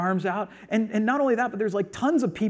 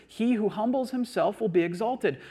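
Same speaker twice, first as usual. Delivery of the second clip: verse restated in one flowing, raised-pitch sweep; higher, continuous delivery of the verse; emphatic restatement; 4 semitones higher than usual. Shown as a demonstration. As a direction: repeat it with conviction, no pause. Repeats the verse as one sentence.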